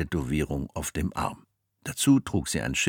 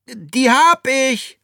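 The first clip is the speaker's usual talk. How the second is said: put-on boy voice; 10 dB louder, much slower than usual. Jack lying.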